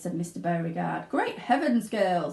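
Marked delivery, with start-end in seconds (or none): 1.1-2.3 mild screech. Acted. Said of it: "screeched Mister Beauregard".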